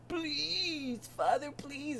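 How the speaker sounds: very high, soft begging whine; mock a helpless son's thin wail; whiny Luke. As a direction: stretch the plea out high, hammed-up. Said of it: "whiny Luke boy, was when he said".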